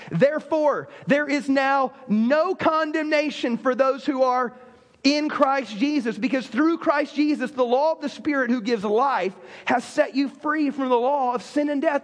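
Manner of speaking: slow, measured scripture reading; solemn reading of Romans. Acted. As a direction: read the verse with weight. Reads scripture aloud.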